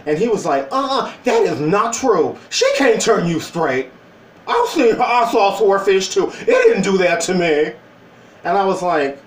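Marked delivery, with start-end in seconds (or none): 0.7-7.7 indignant denial. Retold or imitated. Retold friend objecting.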